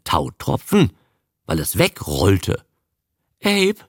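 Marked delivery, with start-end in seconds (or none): 3.4-3.8 higher, faltering plea; frightened stammer. A narrator's reading. Frightened woman begging her man not to leave, stammering. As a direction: stammer the name fearfully. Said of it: "stammelte Lee".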